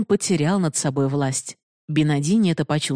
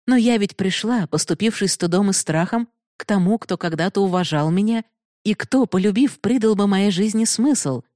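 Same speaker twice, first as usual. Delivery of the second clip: put-on lightly raised voice of a passionate young woman; Binodini's voice; 4 semitones higher than usual. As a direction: speak as the proud, challenging heroine. Binodini begs for mercy. (слегка повышенный голос героини)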